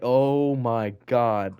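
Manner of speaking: very slow "oh my God"; drawn-out dismay. Retold or imitated. Boy retelling being accused in kindergarten, slow dismay. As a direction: stretch each word in mock horror.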